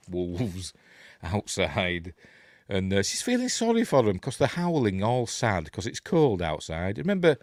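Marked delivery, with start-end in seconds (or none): 0.1-2.1 very slow, stretched words with a laugh; drawn-out. Acted. Storyteller sees the wolves outside, playfully drawn-out. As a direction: draw each word right out, playfully.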